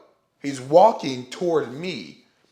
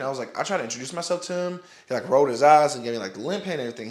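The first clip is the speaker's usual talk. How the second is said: rushed, tumbling words; talking fast; faster than usual. Real, not acted. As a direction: rattle it off nervously. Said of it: "sorry if I'm, like, talking fast, stuttering".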